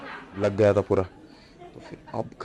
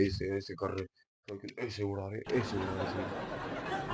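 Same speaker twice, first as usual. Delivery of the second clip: giggly demo; 12 dB quieter, slower than usual. Real, not acted. Showing the racers' moves, giggling.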